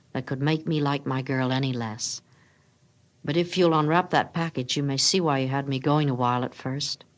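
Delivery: steady him, gently reassuring; lightly voiced Jim.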